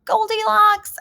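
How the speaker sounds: high, loud surprised reveal; surprised exclamation. Real, not acted. Teacher revealing Goldilocks to the young readers, surprised and high. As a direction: announce the name like a big surprise.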